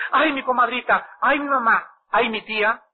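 lightly voiced fretful lament; mock worried sighing. Preacher mocking a believer who still frets after praying, mild lament. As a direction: sigh out each name as if still worried.

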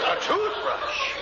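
high, slow disbelieving question; shocked. Acted. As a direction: repeat it in stunned disbelief. Shocked at the order.

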